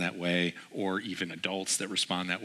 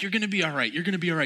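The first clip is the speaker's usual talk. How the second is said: reassuring dad; 9 semitones higher, much faster than usual. Retold or imitated. Father reassures son.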